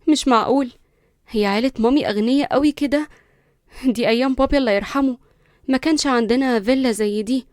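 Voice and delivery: stunned, staring at the house; shocked disbelief. Acted. Linda gaping at the villa, shocked. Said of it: "برقت بصدمة وقالت".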